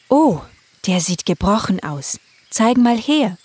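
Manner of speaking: checking a hurt wing; mother voice. Acted. Mother unicorn voice.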